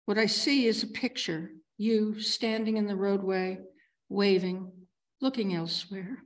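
measured poetry recital, pausing between phrases; poem reading. Acted. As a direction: read it as a poem, each line opening firm and falling away. Reads own poem aloud.

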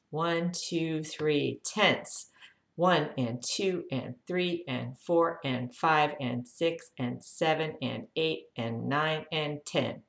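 steady slow counting cue; paced exercise count; guided count. Shown as a demonstration. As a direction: count them through the tension, evenly. Guides a tense panting count.

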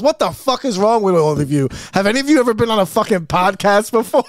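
loud, high-pitched mock tirade; Pedro. Podcast host scolds drunk guests talking over each other, retold angry yelling. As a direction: blow up at everyone like a fed-up host. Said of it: "he finally snaps and goes".

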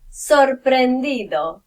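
ordinary talk, nothing marked

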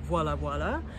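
voilà, voilà said with relish; playful voilà. Shown as a demonstration. Vlogger playing with a favourite word. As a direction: savour voilà twice. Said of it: "I love saying voilà".

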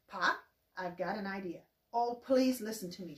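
eager mild pleading; begging. Acted. Ma pleading with Pa at supper, mildly begging. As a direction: ask with a touch of pleading. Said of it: "she begged".

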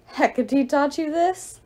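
slow, scornful goddess question; a touch of divine derision; mocking. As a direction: sneer at her hope. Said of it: "Nike laughed".

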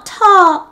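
high, loud crash noise; falling-branch sound. A narrator's reading. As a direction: punch out the sound of the branch landing. Sound of limb falling in story.

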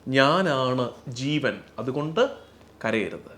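slow reverent voicing of ഞാനാണ് ജീവൻ; slow solemn quote. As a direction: speak the Lord's words slowly and gravely, letting കരയരുത് sink. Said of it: "ഒന്നാമത്തെ കാരണം പറയുന്നത്".

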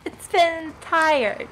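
slow, sleepy drawl on been, then trailing off; tired streamer dragging out the words; drawn-out tired. Real, not acted. Streamer to chat, admitting exhaustion, slow and worn out. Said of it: "but I've been very tired".

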